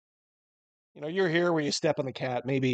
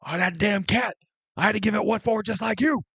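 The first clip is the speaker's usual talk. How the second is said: high-pitched cranky householder; game master's annoyed character voice, pitched up; irritated voice from inside; 8 semitones higher than usual. Acted. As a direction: scold the cat in a high put-on voice. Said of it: "You hear a voice from inside".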